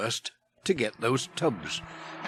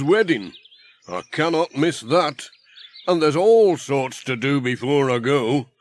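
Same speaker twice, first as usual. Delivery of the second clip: lightly voiced, louder busy man; a hint of a hearty workman; Ted the handyman; 4 dB louder than usual. Ted chatting to Pat while hosing the van, louder.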